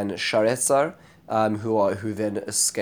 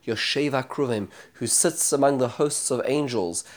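fervent prayer; 2 semitones higher than usual. Acted. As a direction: beg for rescue with growing urgency. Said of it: "he prays fervently".

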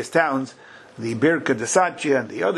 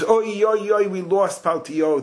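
higher-pitched wail of loss, lightly acted; mock lament; 6 semitones higher, slower than usual. Teacher voicing Yecheskel upset over losing Paltiyo, mock lament. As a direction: wail the oi's like a mourner, half in earnest. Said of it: "he was terribly upset".

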